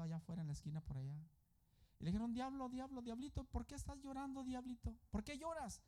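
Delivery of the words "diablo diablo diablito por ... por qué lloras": high, softer mock concern; mock coaxing. People asking the weeping little devil why he cries, mock coaxing. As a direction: coax him in a raised, softened voice. Consuelan al diablo que llora, en burla.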